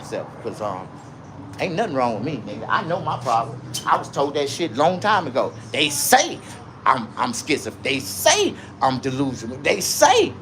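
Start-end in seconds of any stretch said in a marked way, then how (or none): 5.7-10.3 ranting with a preacher's punch. Real, not acted. Livestreamer insisting on his own power, preacher-like rant. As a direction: go off like a street preacher. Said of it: "going off like a preacher".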